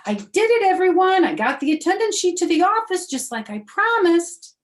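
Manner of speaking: put-on high, loud triumphant little girl; proud May. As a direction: crow about the errand. May boasting.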